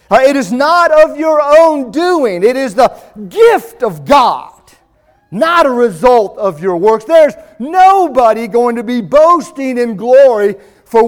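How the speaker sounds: fervent preaching. Acted. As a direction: preach it to the congregation, full force. Preaching scripture at full force.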